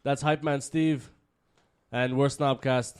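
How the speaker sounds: show host intro. Acted. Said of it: "What, what, what an introduction".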